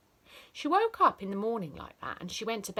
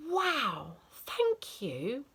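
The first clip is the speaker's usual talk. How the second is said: put-on slow, much higher gushing child voice; delighted child thanking teacher; grateful child; 5 semitones higher, much slower than usual.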